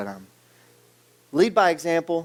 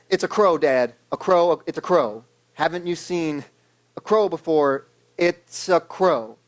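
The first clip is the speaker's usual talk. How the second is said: irritated tone. Retold or imitated. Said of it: "you can hear the tone in his voice".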